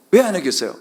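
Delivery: ordinary delivery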